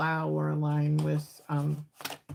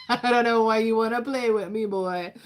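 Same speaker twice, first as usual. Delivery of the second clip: playful tease; 4 semitones higher, 6 dB louder than usual. Acted. Playful teasing of spirit.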